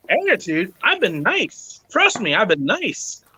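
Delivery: drawn-out "nice", retold protest; indignant protest. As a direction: protest mildly, stretching the key word. Retelling his indignant reply to criticism.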